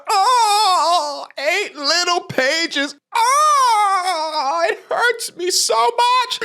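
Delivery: hammed-up fake sobbing whine; mock-sob it like a tearful video; mock crying. Mocking a divorcee who cries into the camera, fake sobbing. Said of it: "cry into the camera".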